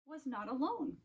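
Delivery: soft, hushed repeat of the line; hushed echo. A narrator's reading. Narrator echoes the discovery in a soft hush. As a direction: let it fall away to a near hush.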